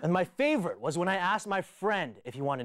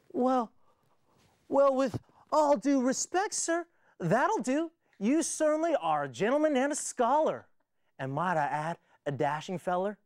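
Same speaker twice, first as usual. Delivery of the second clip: higher, slow Southern flattery; cowboy drawl; 6 semitones higher than usual. Retold or imitated. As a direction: sweet-talk with a country twang. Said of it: "this cowboy".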